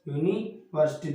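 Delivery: यूनिवर्सिटी read out slowly in parts, opening on a "yu" sound. Shown as a demonstration. Teacher shows students how to read the word, sounding out यूनिवर्सिटी slowly. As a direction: break यूनिवर्सिटी slowly after "yuni". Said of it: "यूनिवर्सिटी को पढ़ें".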